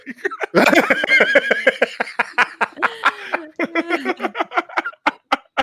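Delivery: long high burst of laughter. Real, not acted. Laughs at the kiss for Nino.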